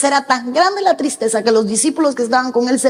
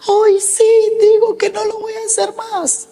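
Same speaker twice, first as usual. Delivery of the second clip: put-on much higher, tearful voice of a young man breaking down; imitating a weeping young man begging his pastor for answers; crying plea; 11 semitones higher than usual. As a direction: cry it out high and desperate, pleading with God. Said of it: "Y él llegaba y lloraba y me decía".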